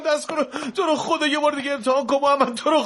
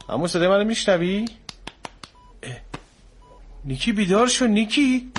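alarmed calling; 4 semitones lower, 4 dB louder than usual. Acted. Child not responding, alarm rising.

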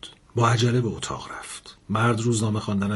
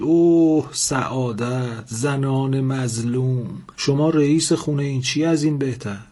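sarcastic mockery; 2 semitones higher, 3 dB louder, slower than usual. Man mocking wife's complaint.

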